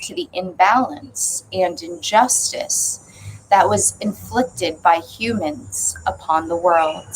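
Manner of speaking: intoned passage reading with weighty pauses; measured reading. Acted. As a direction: read it solemnly in spaced phrases. Reads the opening passage aloud.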